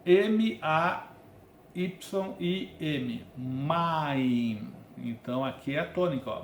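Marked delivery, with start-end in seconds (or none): 0.0-3.2 slow letter-by-letter sounding out; spelling out sounds. Shown as a demonstration. Hebrew teacher sounding out letters slowly. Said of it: "presta atenção no som". 3.4-4.7 "maim" said as two syllables, ma-im, stress on the last; Hebrew pronunciation. Shown as a demonstration. Teacher modelling Hebrew word "maim" for students. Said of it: "presta atenção no som".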